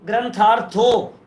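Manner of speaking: slow ग्रंथार्थो, every syllable separate; letter-by-letter reading. Shown as a demonstration. Teacher adding the next letter, slow syllable-by-syllable reading. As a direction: stretch out ग्रंथार्थो as a reading demo. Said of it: "फिर रे आएगा".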